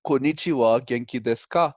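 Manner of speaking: "Konnichiwa, genki desu ka?" with a native Japanese accent. Shown as a demonstration. Showing the host his accent-free Japanese greeting. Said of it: "That's Japanese".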